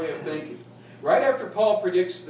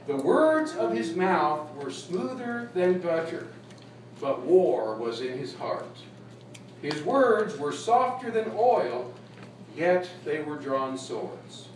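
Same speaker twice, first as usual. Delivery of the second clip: slow, weighty scripture reading; measured scripture recitation; slower than usual. Real, not acted. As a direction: read each phrase slowly and deliberately.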